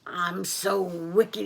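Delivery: slow, drawn-out self-satisfaction; mildly villainous, savouring it; gloating wolf. Acted. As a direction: stretch it out with smug relish. Wolf gloats after eating.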